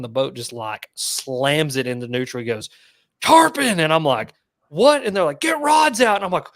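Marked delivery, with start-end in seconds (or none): 3.2-3.8 high, loud call-out imitating the guide; excited shout. Retold boat guide's shout. 4.7-5.0 high, loud yelp of surprise; startled shout. Retold or imitated. His startled reply, retold. 5.4-6.2 high, loud acted-out command; urgent shouted order. Retold urgent order on boat.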